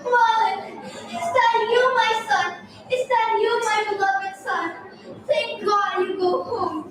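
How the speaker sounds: a hint of a hopeful old mother; mother's cry. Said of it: "She cried".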